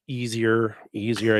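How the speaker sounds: ironic air quotes on easier; easier, with a sceptical ironic lilt; air-quoted. Real, not acted. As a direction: say easier as if in quotation marks. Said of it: "I say that very quotationally".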